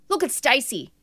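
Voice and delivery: high, punchy fitness coach voice; drill sergeant coach. Retold or imitated. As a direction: bark it like an infomercial trainer. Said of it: "he'd be saying, like".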